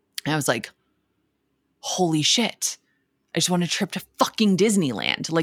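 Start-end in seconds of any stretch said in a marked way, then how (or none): 1.8-5.4 put-on swooping, animated freakout. Retelling winning a trip to Disneyland as a child: imitating own past freakout. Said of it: "losing my mind".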